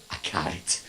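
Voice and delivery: low, soft, barely holding back a laugh; stifled laugh. Retold or imitated. Teller answers the helpful old man, stifling a laugh. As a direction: swallow the giggle and mumble it. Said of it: "I'm fighting really hard for composure".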